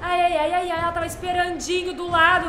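high shrieking panicked wail; screaming sing-song panic; scared horror game streamer. Real, not acted. Nun was waiting beside her.

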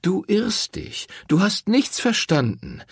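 a priest correcting her sharply; hint of a lecturing cleric; priest, stern. A narrator's reading. Priest voiced in read story.

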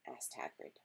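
plain reading voice

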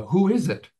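squawky high parrot call; lady coaching her parrot. Retold or imitated. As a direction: mimic a parrot asking at the door. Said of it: "trying to teach the parrot".

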